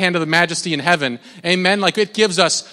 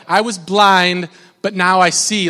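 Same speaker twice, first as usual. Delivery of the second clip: excited declaration; 4 dB louder than usual. Shown as a demonstration. Preacher asking if church finds it exciting, excited declaration. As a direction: proclaim it, drawing out "blind". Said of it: "Is that exciting for you this morning?".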